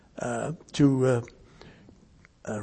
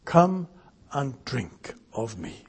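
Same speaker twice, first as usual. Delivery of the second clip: gentle invitation; 3 semitones lower, 11 dB quieter, slower than usual. Pretend. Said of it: "What simple commands".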